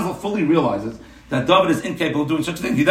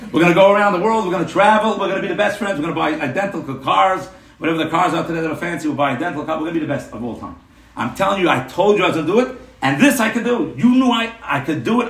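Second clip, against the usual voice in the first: mock-manic excitement, a little raised in pitch and volume; retold excited screaming. Friend phones at midnight about winning the lottery, mildly mock-screaming. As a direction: imitate an overexcited friend, short of real screaming. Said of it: "David's screaming like a lunatic".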